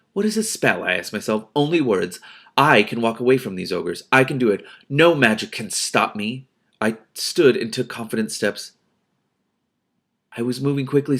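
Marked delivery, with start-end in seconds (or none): 0.1-6.5 persuasive voice. Acted. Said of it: "I made my voice as persuasive as I could".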